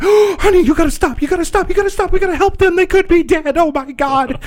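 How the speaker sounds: high, loud, frantic pleading; freaked-out mom. Retold or imitated. Nurse mom begging son to stop at crash, mock frantic. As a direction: imitate a mom in full panic. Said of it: "so she freaks out".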